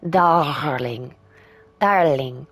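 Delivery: put-on drawn-out French-accented endearment; stretched word in a mock French accent. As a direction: lightly imitate a French lover's accent. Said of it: "say it with your lovely French accent".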